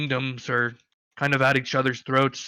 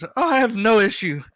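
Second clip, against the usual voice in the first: higher, louder eager dwarf; the dwarf asks the half orc about the Badlands, higher and keen; 4 semitones higher, 5 dB louder than usual. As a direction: perk up like a curious dwarf. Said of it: "And dwarf goes".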